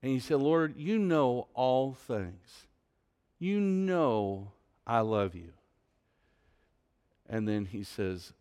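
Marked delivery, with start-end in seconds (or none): 0.4-5.5 grieved. Retold or imitated. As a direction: say it slowly, wounded and sincere. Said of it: "Peter was grieved".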